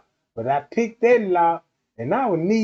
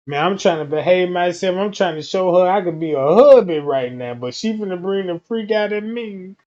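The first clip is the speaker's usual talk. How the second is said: ordinary talk, nothing marked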